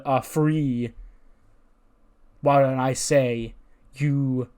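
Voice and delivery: lightly voiced taunting wrestler, deliberate pauses; swaggering wrestler promo. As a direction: draw out the challenge like a wrestling promo.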